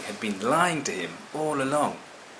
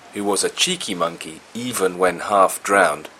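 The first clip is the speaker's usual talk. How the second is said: plain reading voice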